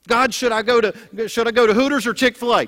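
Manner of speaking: hammed-up loud asking; mock eager prayer. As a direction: call up to God for a quick answer. Acting out a demanding prayer.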